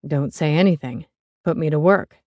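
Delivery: a hint of a gruff dad; lightly gruff older man. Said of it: "said Stan in his gruff voice".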